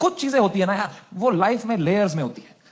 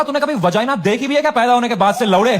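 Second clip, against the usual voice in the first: mock savage comeback; 5 dB louder than usual. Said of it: "बोला".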